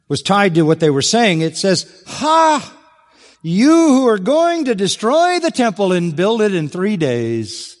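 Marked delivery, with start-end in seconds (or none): 2.1-7.8 high, scornful mocking jeer, rising sharply on Ha; sarcastic jeer. Preacher voicing the crowd's taunt, in a high sarcastic jeer. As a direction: sneer it like a bystander taunting the cross.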